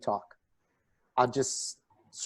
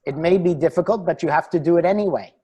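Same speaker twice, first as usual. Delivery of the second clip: put-on Indian accent; 2 semitones higher, 3 dB louder, faster than usual. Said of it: "you keep on doing the Indian accent".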